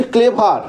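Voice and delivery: "ক্লে ভার" as two full syllables; mispronounced "ক্লে ভার", both parts sounded out; wrong two-part pronunciation. Shown as a demonstration. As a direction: say "ক্লে ভার" with a long klay, then var. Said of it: "কিন্তু উচ্চারণটা ভুল করছি".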